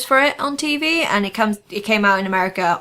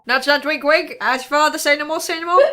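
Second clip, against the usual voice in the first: lightly hammed-up sly innuendo voice, a bit higher; a knowing nudge-nudge wink-wink, played lightly; Monty Python sketch voice; 4 semitones higher than usual. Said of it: "Sorry, I went into Python".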